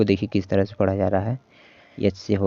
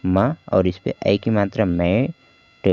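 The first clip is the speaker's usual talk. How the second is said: slow sounding out; slower than usual. Shown as a demonstration. Teacher blending the word slowly for students. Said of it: "किस तरह से पढ़ा जाएगा".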